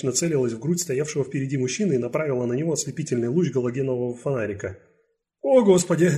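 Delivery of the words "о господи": louder, higher frightened gasp; a startled old cleaner blurting in fright. Acted. Startled cleaner gasps at the flashlight. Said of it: "выдохнул пожилой уборщик".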